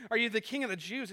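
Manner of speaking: fast, offhand, careless question; not serious. Retold or imitated. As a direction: ask it without caring for the answer. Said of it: "it's not really a serious one".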